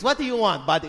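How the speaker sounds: mildly curt mock vendor; lightly dismissive, as to an unwanted customer; jerky server. Server to male customer, a touch jerky. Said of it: "they're just jerks".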